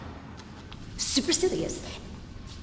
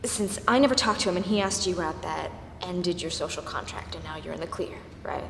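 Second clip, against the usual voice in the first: restrained anger; 6 semitones lower than usual. Acted. Acted fight, restating the excuse.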